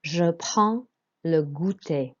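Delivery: "je prends le goûter" slow and careful; slow French model with nasal "prends"; model French pronunciation. Shown as a demonstration. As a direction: repeat "je prends le goûter" slowly, D and S silent. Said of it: "And again".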